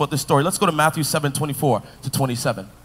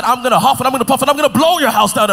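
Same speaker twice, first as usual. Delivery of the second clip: wolf threat; 6 semitones higher, 5 dB louder, faster than usual. Acted. Wolf threat in told story.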